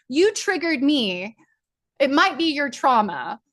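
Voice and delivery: high, giggly mock replay of her words; giggly retelling. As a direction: replay it bubbling over with amusement. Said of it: "I just started giggling".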